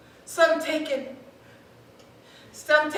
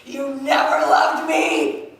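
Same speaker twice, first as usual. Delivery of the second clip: slow, shouted accusation; anguished shout; slower than usual. Acted. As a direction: hurl the line at him.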